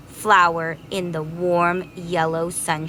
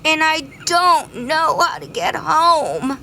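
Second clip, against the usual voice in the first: scared bee; 8 semitones higher, 4 dB louder than usual. Acted. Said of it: "cried the greedy bee".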